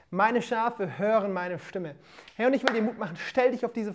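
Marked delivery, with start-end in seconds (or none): 0.1-1.9 slow, joined repeat of the verse. Shown as a demonstration. Preacher repeating the verse to viewers, slow and joined. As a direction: let the whole verse sink in slowly. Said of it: "da sagt Jesus".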